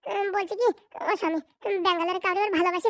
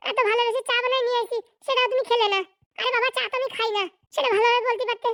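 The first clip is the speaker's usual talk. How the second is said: quarrel; 2 semitones higher than usual. Acted. Wife complains the husband no longer speaks kindly, mildly heated. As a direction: argue back at the husband in mild heat.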